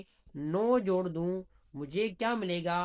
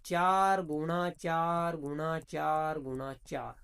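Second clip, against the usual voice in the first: slow, each चार spelled out deliberately; walk the class through it slowly; slow step-by-step demo; 3 semitones lower, much slower than usual. Shown as a demonstration. Teacher showing students how to multiply, slow and deliberate. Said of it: "ये ऐसे करना पड़ेगा".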